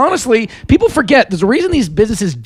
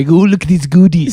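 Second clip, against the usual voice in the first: creepy cartoon baby. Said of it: "like a little fucking Stewie".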